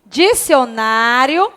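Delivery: Dicionário drawn out very slowly, leaning on ná; very slow Dicionário with ná stressed; slowly syllabified. Shown as a demonstration. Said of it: "E aí?".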